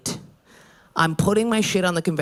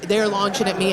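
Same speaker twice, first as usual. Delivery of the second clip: ordinary delivery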